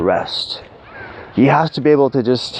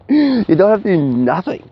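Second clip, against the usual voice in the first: laughing through the words; 7 semitones higher than usual. Real, not acted. Telling viewers no effort is needed, laughing. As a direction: say it while still chuckling. Laughing while making point.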